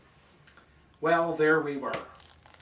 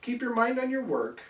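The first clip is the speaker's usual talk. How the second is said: sharp, raised command to the cat; stern order; 8 semitones higher than usual. Acted. Narrator scolds the cat, a sharp raised order. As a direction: bark it like a boss scolding.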